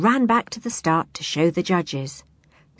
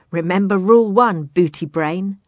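mocking laugh; 5 dB louder than usual. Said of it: "laughed his rival".

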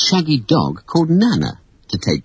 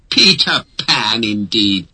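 scoffing; slower than usual. Acted. Father scoffs at his son's belief in Peter Pan. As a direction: dismiss the idea with a sneer. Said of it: "scoffed Mister Darling".

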